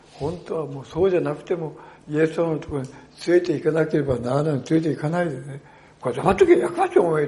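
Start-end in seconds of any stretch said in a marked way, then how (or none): 6.0-7.3 angry rebuke. Retold or imitated. Crowd scolding the blind man with a loud angry rebuke. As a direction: shut him up harshly. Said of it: "怒ったとか言って".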